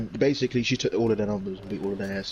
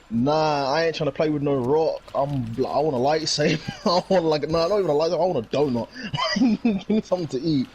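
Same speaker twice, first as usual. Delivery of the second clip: put-on bratty Baby Yoda; 5 semitones higher than usual. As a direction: play the spoiled little creature, giggling. Voicing Baby Yoda's whiny demands.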